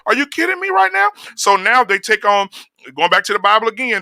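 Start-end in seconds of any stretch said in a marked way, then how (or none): 0.1-1.1 high, sing-song mock voice; mocking effeminate men. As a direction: camp it up to ridicule them. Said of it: "I see these fucking men walking around".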